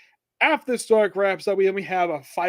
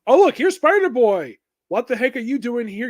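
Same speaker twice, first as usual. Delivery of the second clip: mock surprised, higher and louder greeting; sarcastic wide-eyed oh look; mock surprise; 4 semitones higher, 3 dB louder than usual. Two fans mocking a random comic cameo, mock surprised.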